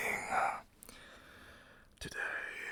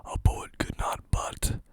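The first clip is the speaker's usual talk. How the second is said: whispered poem reading. Acted. Reads Wordsworth poem aloud.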